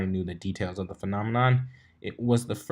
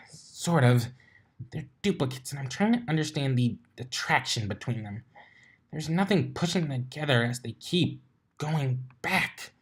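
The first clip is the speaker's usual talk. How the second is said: Twilight's voice; 5 semitones higher, 4 dB quieter than usual. A narrator's reading. Twilight voiced, higher and soft.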